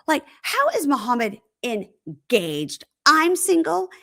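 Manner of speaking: theatrical wronged-woman tirade; dramatic outrage. Retold or imitated. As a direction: imitate a melodramatic jilted woman. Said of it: "So dramatic".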